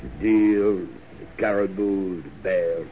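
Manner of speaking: wistful. Acted. Wistful speech about woods.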